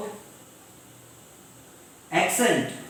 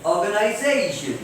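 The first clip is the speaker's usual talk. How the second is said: "Organization" with a long, raised ZA; stressed syllable before -tion. Shown as a demonstration. Teacher answering how we pronounce it, stress on ZA in "Organization". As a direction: punch and stretch ZA in "Organization". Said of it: "So how do we pronounce it?".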